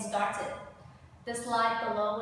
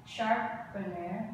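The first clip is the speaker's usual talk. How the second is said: sharpener, slowly split into its syllables; 2 semitones lower, slower than usual. Shown as a demonstration. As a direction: break "sharpener" down slowly for learners. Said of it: "there are three syllable".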